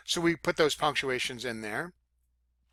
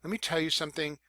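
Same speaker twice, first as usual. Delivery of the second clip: serious; 3 semitones lower, 7 dB quieter than usual. Shown as a demonstration. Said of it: "when we're really trying to be serious".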